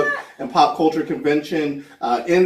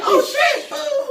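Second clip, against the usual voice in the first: mock surprise. Mock realisation, joke landing.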